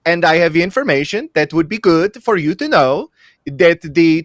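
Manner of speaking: put-on a light Venezuelan accent. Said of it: "my best Venezuelan accent".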